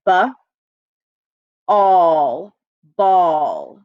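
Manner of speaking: B, then a loud all, then blend into ball; tapping out glued sound. Shown as a demonstration. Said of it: "Let's try that again".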